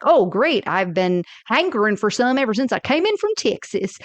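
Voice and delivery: hammed-up Texan twang; mock Texan, imitating a terrible fake accent; horrible Texas accent. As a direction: put on a bad Texas accent. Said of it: "is doing a horrible Texas accent".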